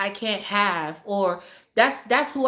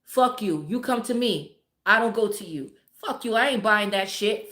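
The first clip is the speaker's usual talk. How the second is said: defiant brush-off. Pretend. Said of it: "instead of saying".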